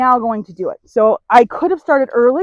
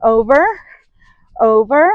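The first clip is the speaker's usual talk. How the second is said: firm repeated over, rising; firm cue. Shown as a demonstration. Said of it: "look at him and say".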